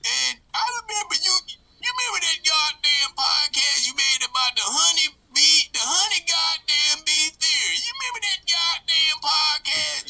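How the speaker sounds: loud rowdy redneck character. Acted. Redneck Bill rants.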